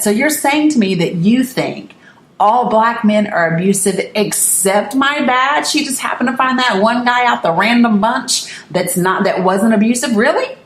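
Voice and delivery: retold incredulous challenge; kind of pissed. Niece challenging uncle about black men, kind of pissed. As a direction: throw his claim back at him, indignant. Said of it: "So I was kind of pissed".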